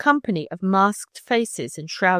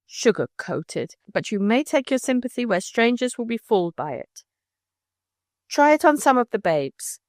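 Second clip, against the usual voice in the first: angry; 3 semitones higher than usual. Acted. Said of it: "eyes flashed in anger".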